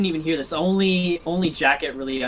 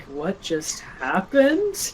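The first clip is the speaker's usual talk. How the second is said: stunned disbelief; 4 semitones higher, much slower than usual. Acted. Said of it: "she's just speechless".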